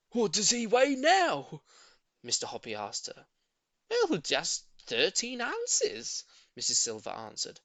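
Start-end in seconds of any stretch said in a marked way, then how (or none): 0.1-1.6 slow, higher, louder question; curious neighbour. A narrator's reading. Shy man asking the lady about her tortoise, slow keen. Mr Hoppy asks. 3.9-6.2 slow, high, sorry sigh; rueful old lady. A narrator's reading. Old lady admitting tortoise weight, slow rueful. Mrs Silver answers.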